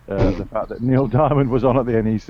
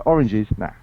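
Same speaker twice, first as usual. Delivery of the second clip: ordinary talk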